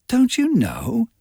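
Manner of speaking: as if everyone already knew; surprised. A narrator's reading. Miss Baker surprised Nick hasn't heard, slow surprised question. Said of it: "said with surprise".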